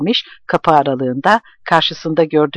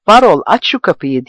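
calling through a locked door, louder; shouting; 3 semitones higher, 5 dB louder than usual. Acted. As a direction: shout at the door for Varol to open. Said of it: "diye bağırdı". (kilitli kapıya seslenen bağırış)

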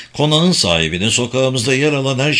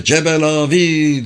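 slow, higher-pitched angry call; despairing cry; 6 semitones higher, slower than usual. A narrator's reading. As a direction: call out in anger and hopelessness, drawn out. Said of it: "diye bağırıyordu". (öfke ve umutsuzlukla bağırış)

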